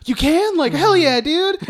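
high mock-excited voice, breaking into laughter; imitated eager girl. Host retells the girl believing the clown, mock excitement. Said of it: "then she's like".

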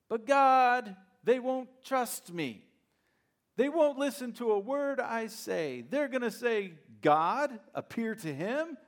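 high, loud, pleading Moses making excuses. Acted. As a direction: beg God like a reluctant man with other plans.

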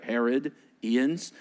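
Herod, Ians said as two slow separate parts; split into parts. Shown as a demonstration. Pastor splits the name for the congregation, slow and deliberate. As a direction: break "Herod, Ians" apart slowly with a pause. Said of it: "Ians, right?".

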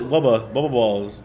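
"Wubba balls" with W for R; mock lisp, rounding "Wubba balls" into W's; W-heavy lisp. Host mimicking how an interviewer says her name, lisped "Wubba balls". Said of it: "She calls it wubba".

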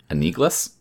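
"Anigles" as a-NEE-gluss, rising; "Anigles" said as an unsure guess; questioning pronunciation. Shown as a demonstration. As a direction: try "Anigles" with a short "gluss" ending, as a question. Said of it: "I'm gonna say it wrong".

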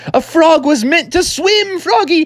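high, exultant frog dad; rising, hammed-up excitement; excited declaration. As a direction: proclaim it just before you leap. Dad exclaims before leaping.

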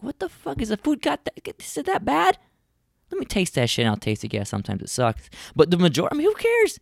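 very high, incredulous mock outrage; exasperated dad. Dad baffled daughter won't eat, high incredulous. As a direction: squeal in disbelief at the fussy kid. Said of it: "I'm like".

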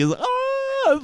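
high, soft squeal of disbelief; a breathy high ah of amazement; overwhelmed gasp. Retold or imitated. Host remembers the pregnancy news, high soft squeal. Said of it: "I just got like".

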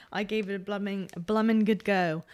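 put-on a touch of a British accent; a touch of a jokey British accent; British slang flourish. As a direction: toss it off in a light British voice. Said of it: "Why'd you just go so U K there?".

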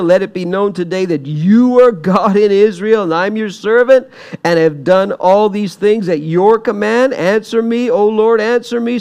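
acted urgent plea to God; do-or-die prayer. Elijah praying before the altar, earnest do-or-die prayer. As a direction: pray it out as if everything depends on it. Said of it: "do or die kind of prayer".

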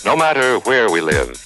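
usual speaking voice

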